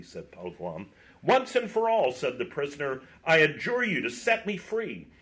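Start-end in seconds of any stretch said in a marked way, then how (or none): 1.2-5.1 invoke every power to be freed; solemn adjuration. A narrator's reading. Knight adjures them solemnly.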